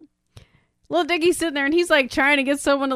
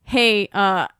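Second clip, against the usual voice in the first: lower-pitched, halting question; hesitant, imitated; 4 semitones lower than usual. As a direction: imitate someone tiptoeing round an accusation. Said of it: "stumbling on his words".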